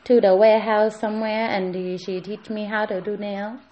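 lightly acted Hong Kong accent. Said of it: "they make me talk like this".

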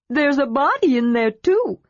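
high, excited kender chatter; a kender bursting with news; eager kender voice. A narrator's reading. Narrator voicing Tass telling Armin of the find, eager and high.

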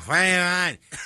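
imitating a slurred drunk; mock-sloshed, smeared-out delivery; drunken slurring. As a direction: slur the words together like a drunk. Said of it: "I was, like, slurring".

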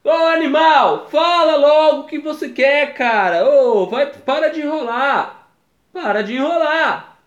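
high, drawn-out nagging; impatient subconscious. Acted. Inner voice pushing him to confess, impatient high-pitched pleading. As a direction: urge yourself on, high and exasperated. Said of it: "E meu subconsciente".

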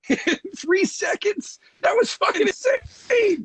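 laughing shout of amazement at the video edit; real amazed shout. Real, not acted. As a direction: blurt it out, blown away by the edit. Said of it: "Jesus Christ".

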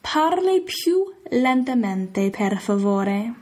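"Parli più lentamente, per favore" drawn out slowly; slow Italian request. Shown as a demonstration. Teacher slowly modelling asking someone to slow down. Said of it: "you can always tell them".

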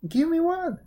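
very high, loud monkey demand. A narrator's reading. Monkey wanting a millet dumpling, very high loud voice. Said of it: "said the monkey".

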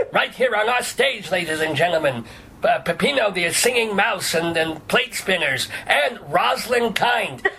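hammed-up variety show host; showman announcer. Mock variety show introduction.

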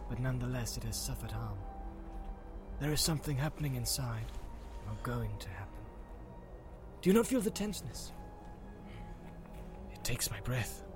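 uneasy, half-whispered elf; breathless sense of dread; hushed elf voice. A narrator's reading. Legolas senses tension.

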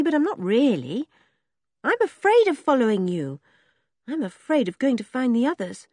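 put-on girl Henry, afraid. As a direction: admit the fear honestly.

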